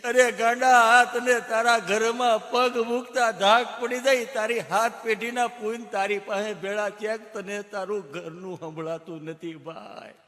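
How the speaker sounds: choked-up doctor building to a high, loud shout; old doctor scolding fondly, rising to a yell; doctor moved to tears, then shouting high and loud; emotional doctor. Retold or imitated. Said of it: "doctor સાહેબ ગળગળા થઈ ગયા".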